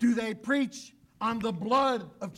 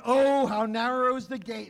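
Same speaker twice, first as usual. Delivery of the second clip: louder, urgent warning leaning on "Oh"; 6 dB louder than usual. Acted. Preacher warning the congregation about the gate, loud and urgent. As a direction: warn them the gate is tight. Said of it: "he warns".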